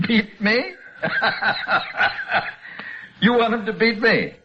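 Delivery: high, cruel cackling laugh through the words; mocking laughter. Van Allen laughing off the dying doctor's hope, high mocking laughter. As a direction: laugh him to scorn.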